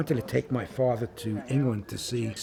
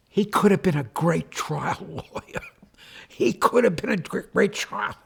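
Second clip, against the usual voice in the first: father's proud protest, pitched higher; retelling Dad's boast with a raised, insistent voice; imitating his father; 8 semitones higher than usual. Son imitates his father bragging to a stranger, higher and insistent. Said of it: "my father says".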